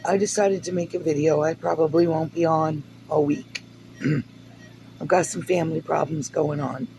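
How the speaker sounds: hoarse, raspy, half-gone voice; raspy whisper from a failing voice; losing voice. Real, not acted. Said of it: "Sorry, I'm losing my voice".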